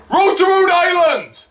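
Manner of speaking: high-pitched song request; re-enacted shout. Fan requesting Family Guy song, high shout. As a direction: yell the request up to the stage. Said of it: "I also shouted at him".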